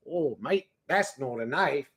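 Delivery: put-on light Australian accent, slow finish; mock Australian. Streamer quoting the crocodile knife line, mock Australian. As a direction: lightly put on an Aussie drawl. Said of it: "I shoulda said a crocodile".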